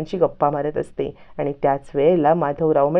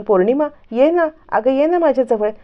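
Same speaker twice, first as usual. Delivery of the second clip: higher, louder, affectionate call to come close; lovingly calling; 9 semitones higher, 4 dB louder than usual. A narrator's reading. Bhumi calling Purnima to her side, affectionate and higher. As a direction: coax her over with love. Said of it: "असं म्हणत प्रेमाने ती पौर्णिमाला आपल्याजवळ बोलवते".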